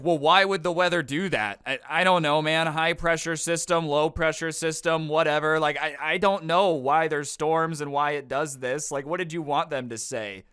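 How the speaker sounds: loud baffled rant. Retold or imitated. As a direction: play the clueless guy getting worked up. Quoting the guy's baffled argument.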